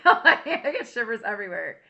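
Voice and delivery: shivery giggle through the words; real delighted laugh. Real, not acted. Laughs at own chills.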